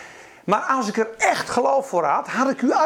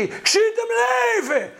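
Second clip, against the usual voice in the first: bold declaration; 10 semitones higher than usual. Retold or imitated. Healer declaring boldly.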